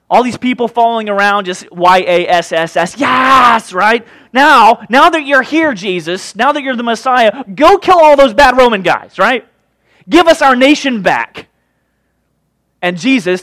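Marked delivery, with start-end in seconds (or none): 1.4-3.7 excited cheer. Retold or imitated. Crowd cheering for the Messiah. 4.3-11.5 loud, high, eager crowd; eager demand. Retold or imitated. Crowd urging Jesus to kill the Romans, loud and eager.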